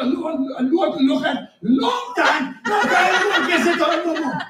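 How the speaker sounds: angry Nathan. Retold or imitated. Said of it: "Nathan mad about".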